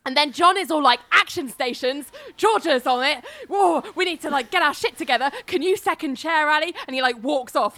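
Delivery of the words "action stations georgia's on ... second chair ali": barking orders. Retold or imitated. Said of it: "barking orders".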